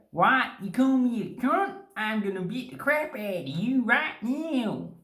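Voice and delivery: high, hammed-up offended threat; mock outrage. American stranger taking the greeting wrongly, mock angry. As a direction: play an affronted stranger, pitched right up.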